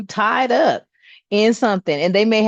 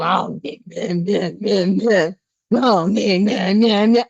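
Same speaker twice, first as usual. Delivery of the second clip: grumbling dad; 3 semitones lower, slower than usual. Retold or imitated. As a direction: mumble yeahs like a grumpy old dad.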